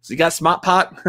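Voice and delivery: put-on lighter Boston accent asked as a question; a half-hearted Boston ad voice. Echoing the Smart Park ad in a mild Boston accent. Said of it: "we try to do a Boston accent".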